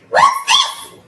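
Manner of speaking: very high, loud astonishment; shocked gasp. A narrator's reading. Mister Twit entering the upturned living room, shocked gasp. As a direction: exclaim it sharply in shock. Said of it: "gasped Mister Twit".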